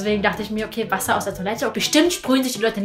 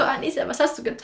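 horrified whisper; 2 semitones higher, 6 dB quieter, faster than usual. Retold or imitated. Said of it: "Und die war so".

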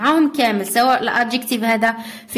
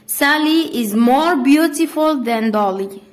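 slow, spelled-out teacher delivery, word by word; slow dictation; much slower than usual. Shown as a demonstration. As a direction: read the rule and example slowly for the class to copy. (إملاء بطيء للتلاميذ)

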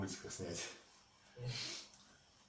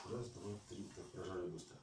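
soft counting; 2 semitones lower, 10 dB quieter than usual. Shown as a demonstration. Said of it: "можно всё на одном выдохе".

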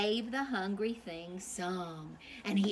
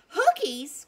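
higher, louder baffled echo; surprised cry; 8 semitones higher, 10 dB louder than usual. Acted. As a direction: toss the word back in disbelief. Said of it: "cried the townspeople".

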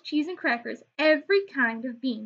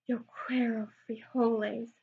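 softer, grave words; grave softer declaration; somber declaration; 6 dB quieter than usual. Acted. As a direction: declare it with solemn gravity. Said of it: "in his most somber voice declared".

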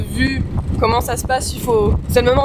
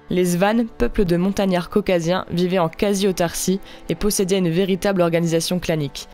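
lower, measured voice-over; documentary narration; 3 semitones lower than usual. A narrator's reading. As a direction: tell the region's history like a travel documentary. (narration posée de documentaire de voyage)

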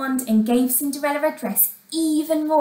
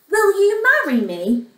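raised, eager question; hopeful proposal; 8 semitones higher, 4 dB louder than usual. A narrator's reading. Prince kneels before Cinderella, hopeful. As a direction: lift the pitch, pleading hopefully.

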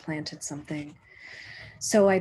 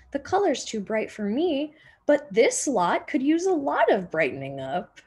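a hint of a jolly neighbor, higher and brighter in spirit; cheerful neighbor; 5 semitones higher than usual. Mister Rocco giving his paint away, lightly voiced and cheerful. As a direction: offer the paint with a chuckle in mind.

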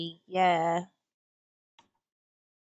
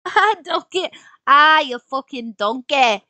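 one more British attempt; British accent try; 7 semitones higher, 13 dB louder than usual. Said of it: "doesn't sound British".

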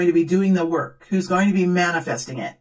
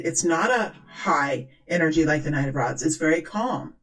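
demo of calm voice; 3 semitones lower than usual. Shown as a demonstration. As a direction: ease off into calm, rational mellowness. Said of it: "keep your voice, um, in a very calm".

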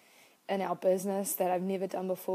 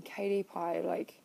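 kind self-talk. Retold or imitated. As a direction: comfort yourself gently. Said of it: "speaking to myself really kindly".

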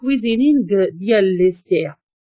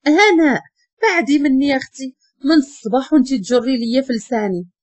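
fed-up snap. Acted. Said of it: "عاقت مع راسها وهي تقول".

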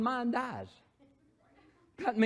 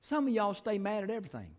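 put-on Southern boy; 2 semitones lower, 5 dB quieter, faster than usual. Shown as a demonstration. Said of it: "say it like a Southern boy".

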